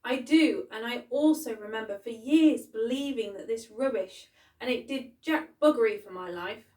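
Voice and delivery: loud, angry outburst; shouting. A narrator's reading. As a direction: shout it back in her face. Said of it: "Molly's mum shouted".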